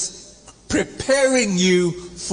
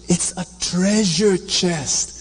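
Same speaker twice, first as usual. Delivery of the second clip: rising excitement; 7 semitones higher than usual. Acted. Finder announces treasure.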